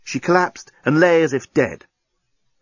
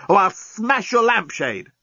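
choking threat; 8 semitones higher, slower than usual. A narrator's reading. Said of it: "choked the journalist".

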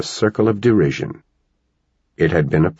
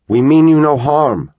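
much higher and louder yell; 9 semitones higher, 6 dB louder than usual. A narrator's reading. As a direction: call out boldly to the aliens. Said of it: "Connor yelled".

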